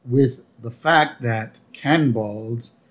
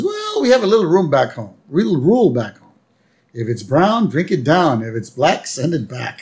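quoting Homer; 4 semitones higher than usual. Retold or imitated. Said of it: "And Homer goes".

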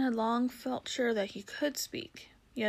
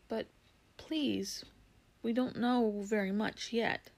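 nosy, snorty horse. Acted. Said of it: "nosy and snorty kind of voice".

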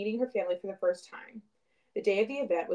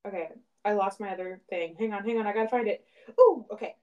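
distant from the microphone; talking far off the mic. Real, not acted. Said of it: "if I sound far away, that's why".

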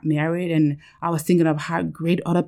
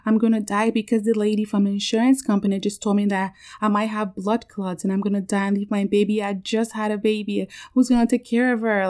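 higher, run-on imitation of panic; raised-pitch tearful rant, retold; retold crying panic; 4 semitones higher than usual. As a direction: re-enact pleading with dad, lightly upset. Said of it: "I was just going off and just crying".

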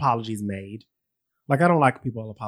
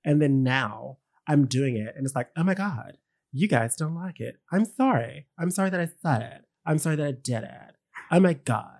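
mocking influencer voice; 3 dB quieter than usual. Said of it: "Why are you talking like that?".

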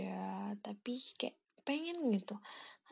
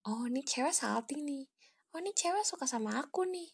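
put-on imagined boy's thoughts; 3 semitones higher than usual.

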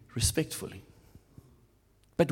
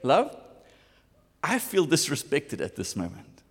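gentle statement; 3 semitones lower than usual. Pretend.

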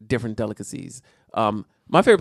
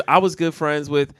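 put-on Latina accent; 2 semitones higher than usual. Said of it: "Add the Latino accent".

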